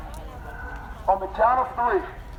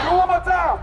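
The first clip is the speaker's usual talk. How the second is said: high-pitched call to a crowd; rallying shout; 6 semitones higher than usual. Real, not acted. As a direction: shout to get them chanting. Urging crowd to chant.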